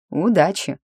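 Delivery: sly mocking well-wish. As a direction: toss it off with a smirk. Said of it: "пожелал эльф насмешливо".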